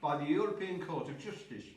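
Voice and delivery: talking through a mouthful of food; chewing while reading the news; mouth full. Real, not acted. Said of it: "I'm eating with my mouth full".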